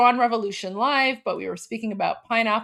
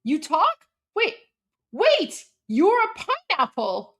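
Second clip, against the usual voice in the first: put-on astonished kid; 5 semitones higher than usual. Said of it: "He's like".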